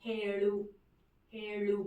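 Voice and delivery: హేళు twice, separated, with retroflex ళ; measured హేళు, long e and curled-tongue ళు; pronunciation model. Shown as a demonstration. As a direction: repeat హేళు carefully for learners to copy. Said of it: "ప్రస్తుతానికి అయితే pronunciation నేర్చేసుకోండి".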